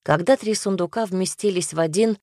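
usual speaking voice

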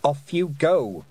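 commanding. A narrator's reading. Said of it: "Tiffany commanded".

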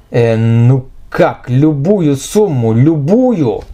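slow, hesitant bewildered stammer; flustered stammer. Acted. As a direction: stumble over it, confused. Rich boy stammers, bewildered.

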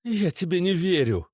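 angry refusal. A narrator's reading. Natasha rejects Oleg, angrier. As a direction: snap it back. Repeated, louder.

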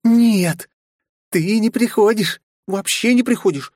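put-on high, cooing girlish purr; very high playful cooing. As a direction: coo it like a cat purring. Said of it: "замурлыкала Кристина".

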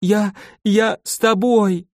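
high, slow wailing cry. Acted. Stammered, howling plea to go along. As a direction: Marfusha clings to Volga, wailing high and slow. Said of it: "Марфуша завыла".

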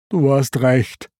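mildly resigned admission; understated dejection; Pumba sighing. A narrator's reading. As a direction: concede with a touch of a sigh. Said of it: "seufzte Pumba".

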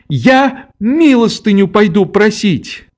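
put-on a child crying out beside herself; frenzied cry. A narrator's reading. Nelli cries out in a frenzy, high and shrill.

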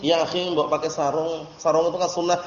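soft friendly nudge; lightly voiced adviser.

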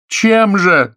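high, loud exasperated cry. A narrator's reading. Actress challenges Oleg's fine words, crying out. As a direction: fling the question out in a shout. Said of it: "закричала Лена".

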